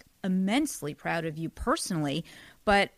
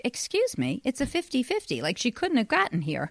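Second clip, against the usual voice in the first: mildly upset; 6 semitones higher than usual. Retold or imitated. Mother retelling her objection to questions about father, mildly upset. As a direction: re-enact a mock-offended objection. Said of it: "my mom gets all upset".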